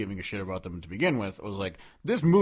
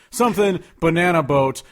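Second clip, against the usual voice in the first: imitating the song; 5 semitones higher, 8 dB louder than usual. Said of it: "they say something like".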